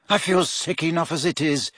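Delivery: high-pitched queasy complaint; begging. A narrator's reading. Boy dreads the coming test, complaining in a high plea. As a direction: plead miserably. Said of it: "Ron begged her".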